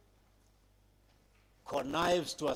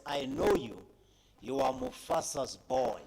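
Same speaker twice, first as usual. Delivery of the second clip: a hint of a wise old baboon, pitched higher; knowing elder, voiced up high and light; lightly voiced old baboon; 7 semitones higher than usual. Speaker retells Rafiki greeting young Simba, lightly voiced higher baboon.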